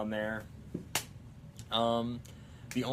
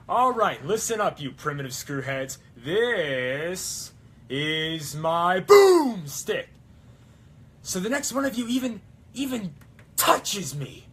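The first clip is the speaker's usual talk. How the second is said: loud, higher movie-hero speech; Ash; 6 semitones higher, 9 dB louder, slower than usual. Acted. Ash warning the primitive screwheads, loud commanding impression. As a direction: bellow it slowly, stretching the big words. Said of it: "best Ash impression right now".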